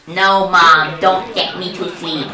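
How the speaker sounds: lightly voiced little kid; a hint of a kid pleading with mom; seven-year-old. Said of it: "seven-year-old impression".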